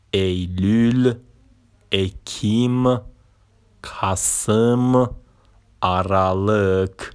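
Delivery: each Turkish month name said slowly and clearly, one by one; careful pronunciation. Shown as a demonstration. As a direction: spell out every month for the learner.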